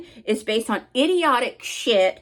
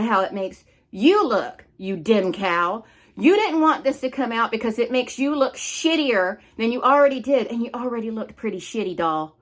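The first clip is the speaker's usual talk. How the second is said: pissed off. Real, not acted. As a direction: spit out the insult. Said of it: "I'm getting pissed off".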